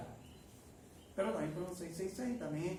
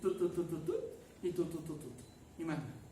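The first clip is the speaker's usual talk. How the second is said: flat monotone; 4 dB quieter than usual. Shown as a demonstration. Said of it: "to, plano, como un cantante".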